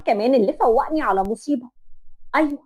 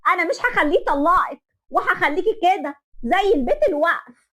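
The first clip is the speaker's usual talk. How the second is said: wailing curse; 5 semitones higher than usual. Retold or imitated. Groom's mother cursing the bride as she collapses. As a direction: drag out the curse in grief and spite. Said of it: "لقيتها بتقولي".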